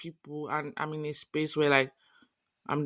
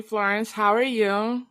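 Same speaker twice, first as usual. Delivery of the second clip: mock American white girl accent, a bit higher; 4 semitones higher, 4 dB louder, slower than usual. Greeting her cohost in a put-on white girl accent. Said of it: "I hate that accent".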